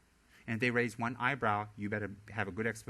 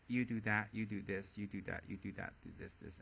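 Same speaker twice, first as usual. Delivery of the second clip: fading, softer bossy list; bossy ordering; 4 semitones lower, 8 dB quieter than usual. Retold or imitated. Committee member bossing others, fading dismissive orders. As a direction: dish out chores dismissively.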